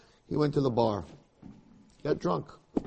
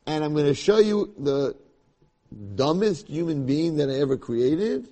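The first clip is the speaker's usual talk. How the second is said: booming God; 3 semitones higher, 5 dB louder than usual. Acted. God mocks Yaakov to the angels.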